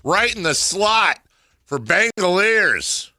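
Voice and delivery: big slow announcer home run call. Retold or imitated. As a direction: belt it out like play-by-play. Mimicking the team's announcer.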